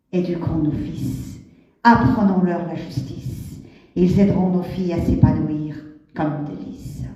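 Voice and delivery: declaimed verse with deliberate pauses; solemn spoken-word poetry delivery; poem recitation. Acted. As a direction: recite it line by line, letting each phrase ring and fall. Recites her own poem.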